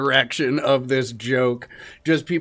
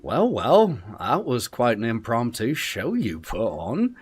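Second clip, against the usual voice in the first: barmaid Alda. Acted. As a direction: sound him out. Barmaid Alda addresses Pelham.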